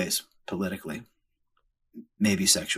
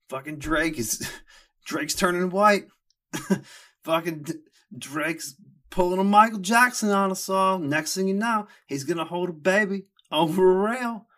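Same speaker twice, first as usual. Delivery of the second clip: high and giggling through the words; can't get it out for laughing; 9 semitones higher than usual. Real, not acted. Host cracking up while mocking a rapper's photo shoot, laughing.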